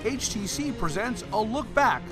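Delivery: sports retrospective voiceover with swooping pitch; announcer read. Acted. Sponsor looking back on coach's historic win, announcer read. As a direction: announce a milestone for the highlight reel.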